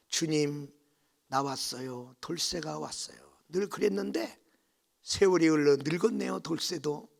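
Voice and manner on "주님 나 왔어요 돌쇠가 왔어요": soft, lowered early-morning prayer; lightly voiced humble greeting. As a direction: quietly announce yourself to the Lord. 새벽에 주님께 인사. (나직하고 순박한 인사)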